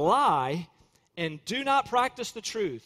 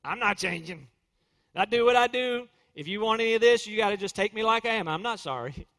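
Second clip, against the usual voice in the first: defiant stubbornness. Retold or imitated. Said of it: "they're saying".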